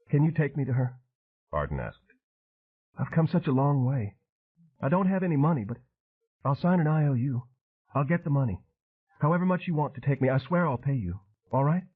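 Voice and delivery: rushing to convince him; desperate pleading. Acted. Arden begging Train to guide her, desperate.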